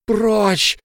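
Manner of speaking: high, loud breaking yell; loud cry, voice breaking; voice cracking shout. A narrator's reading. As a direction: snap out a final order. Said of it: "его голос сорвался".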